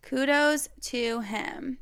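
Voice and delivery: slow whispered echo; whispering. Real, not acted. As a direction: whisper it back slowly. Echoing the previous line.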